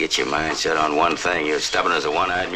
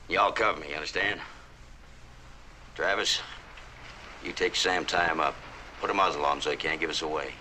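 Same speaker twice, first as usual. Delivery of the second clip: hushed; 9 dB quieter than usual. Acted. Leader quietly planning the ambush with his men, hushed urgency. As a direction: keep it down so the enemy can't hear.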